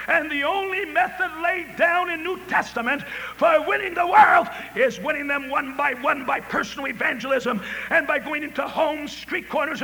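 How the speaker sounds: full-force preaching. Acted. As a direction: drive the call home, city by city.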